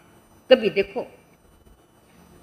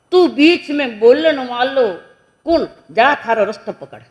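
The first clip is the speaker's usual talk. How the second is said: acted irritation, raised voice; indignant rebuff; 4 semitones higher, 4 dB louder than usual. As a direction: send the meddler packing. Acted grandfather rebuffing the saint.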